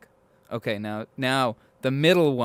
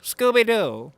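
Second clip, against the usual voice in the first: Scooby-Doo voice; 7 semitones higher, 4 dB louder, slower than usual. Pretend. Goofy voice imitation.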